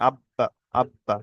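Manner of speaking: "আব্বা" with a bounce separating আব from বা; bouncing qalqalah. Shown as a demonstration. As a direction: say "আব্বা" slowly, knocking the ব apart. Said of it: "ধাক্কা লেগে আলাদা হয়ে যায়". ("আব্বা" ধাক্কা দিয়ে আলাদা করে)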